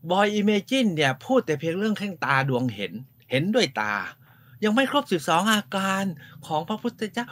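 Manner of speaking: high, eager imitation of Nen; excited quote. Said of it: "เนนบอก".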